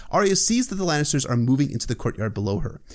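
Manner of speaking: usual speaking voice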